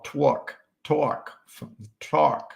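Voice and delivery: put-on clumsy stab at a Boston accent; Boston-accent vowel, tried and retried; attempted Boston accent. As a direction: try "talk" the Boston way, not quite landing it. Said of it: "impossible to do a Boston accent".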